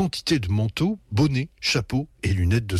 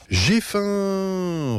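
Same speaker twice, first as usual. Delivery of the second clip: sudden roar; 10 semitones higher than usual. A narrator's reading. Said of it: "rugit brusquement maman".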